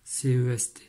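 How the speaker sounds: letters run together. Shown as a demonstration. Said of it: "Écrire efficacement".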